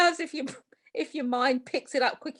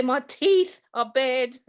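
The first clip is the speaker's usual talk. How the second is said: said slowly and deliberately; slow demo line; slower than usual. Shown as a demonstration. Guest demonstrating how to describe a smile, slowly. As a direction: spell it out slowly for a blind listener. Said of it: "you have to say".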